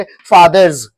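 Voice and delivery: फादर्स said "faadarz", ending in z; teacher's careful "faadarz" for फादर्स; voiced z ending. Shown as a demonstration. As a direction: buzz the last sound of फादर्स as "z". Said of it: "इसको ज pronounce करेंगे".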